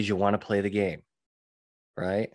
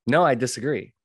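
model answer; 3 semitones higher, 4 dB louder than usual. Shown as a demonstration. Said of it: "It's okay to say".

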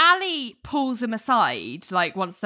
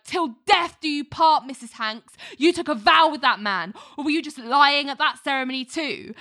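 higher-pitched imitation of a relentless accuser; mock screaming tirade; 6 semitones higher than usual. Mark haranguing Susan about her vows, mock screaming tirade. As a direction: hammer on in a retold rant, without shouting. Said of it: "Mark just keeps going".

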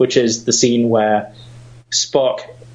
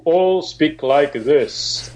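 ultra low rumble; much slower than usual. Retold or imitated. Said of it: "a deep rumbling voice".

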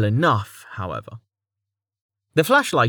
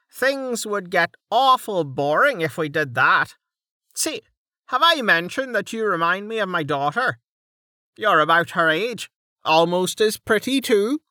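higher, condescending charm; patronizing Dell; 8 semitones higher than usual. Acted. Dell compares Lady Draves to his daughter, patronizing. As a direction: flatter her while talking down.

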